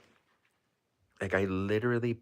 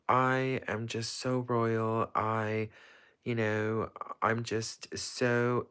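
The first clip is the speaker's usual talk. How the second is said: slow, a little higher, mock royal airs; acting royal; 5 semitones higher, much slower than usual. Imitating herself after watching The Crown, mock royal voice. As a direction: drawl it out like a pretend queen. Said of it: "I would just act so royal".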